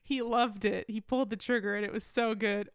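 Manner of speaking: usual speaking voice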